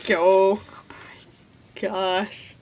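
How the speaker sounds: slow, drawn-out whisper. Real, not acted. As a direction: breathe it out, stunned. Reacting to a sad moment.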